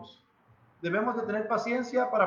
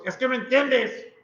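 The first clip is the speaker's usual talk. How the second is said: exasperated parent; 3 semitones higher, 4 dB louder than usual. Retold or imitated. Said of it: "para no decirle a mis hijos".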